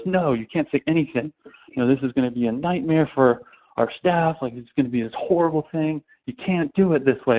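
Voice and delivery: half-acted irritation, brushing them off; retold fuming CEO. CEO refusing the founders, mildly heated. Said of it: "like, fuming".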